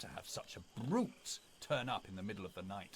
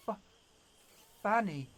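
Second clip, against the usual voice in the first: higher, louder strained call; desperate cry; 12 semitones higher, 9 dB louder than usual. Acted. Dying beast-man crying out to Fanny, strained. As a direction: call her name with the last of his strength.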